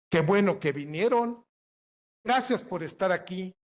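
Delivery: saludo enfático y cantado, con más volumen; prosodia distinta. Shown as a demonstration. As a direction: recalca cada frase como bienvenida efusiva. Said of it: "lo decimos de manera distinta". (bienvenida enfática y cantadita)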